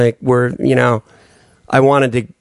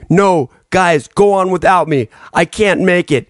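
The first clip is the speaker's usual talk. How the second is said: overacted death scene; 4 semitones higher, slower than usual. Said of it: "me being like".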